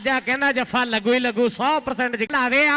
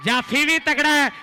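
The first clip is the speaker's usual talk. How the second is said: frantic rural sports commentary. Real, not acted. Live play-by-play.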